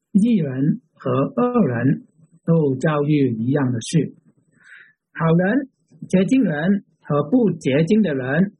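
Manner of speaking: measured reading aloud with pauses between phrases; slow scripture reading. Real, not acted. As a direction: read it out slowly, phrase by phrase. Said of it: "慢慢地读这一章".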